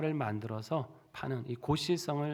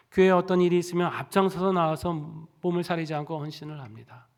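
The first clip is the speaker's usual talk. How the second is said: preaching at full force; 3 dB louder than usual. Acted. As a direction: rouse the congregation to believe. 설교 절정의 외침. (힘차게 외치는 설교)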